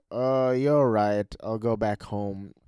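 slow, drawn-out giving in; lightly acted reluctant concession; mock resignation. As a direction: trail down as if defeated. Acts out the Grinch giving up.

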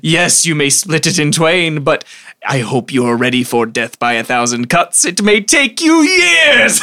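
put-on old hag. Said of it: "you hear a cackling laughter".

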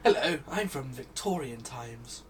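Victorian spiv voice. Pretend. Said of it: "talk like a spiv".

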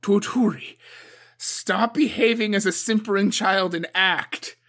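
loud, high, relentless tirade; furious demand. A narrator's reading. Suko pressures Toturi to act, loud furious harangue. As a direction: browbeat the new champion.

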